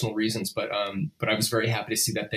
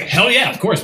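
excited; 11 semitones higher, 8 dB louder than usual. Retold or imitated. Excited agreement to offer.

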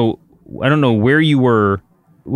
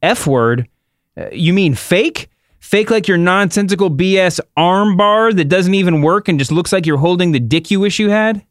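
high, mock-incredulous trash talk; Ronda Rousey; 7 semitones higher than usual. Host as Ronda mocking Becky's arm bar, high theatrical retort. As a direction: play up the offended comeback in a raised voice. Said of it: "I'll do Ronda Rousey".

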